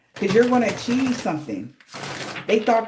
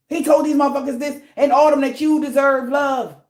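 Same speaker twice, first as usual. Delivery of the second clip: higher, louder heated venting to a coworker; upset rant; 6 semitones higher, 4 dB louder than usual. Retold or imitated. Upset coworker ranting to a partner, heated and loud. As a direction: let the frustration build into a near-shout. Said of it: "Somebody is really upset".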